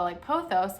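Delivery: pothos said POH-thos, long O; demonstrating POH-thos; pothos spelled out. Shown as a demonstration. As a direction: pronounce pothos just like it's spelled. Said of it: "like P O".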